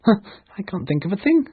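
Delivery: awkward, flustered mumble; embarrassed. Acted. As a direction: admit it like a stumped pirate. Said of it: "he said, embarrassed".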